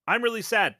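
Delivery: high, loud mock upset; mock-sad client. Client confessing to a useless therapist, hammed-up distress. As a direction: announce your sadness in a hammed-up voice. Acts client given empty validation.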